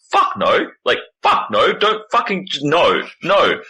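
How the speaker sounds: emphatic indignant no; indignant refusal. Retold or imitated. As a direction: shut it down, outraged. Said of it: "people are like".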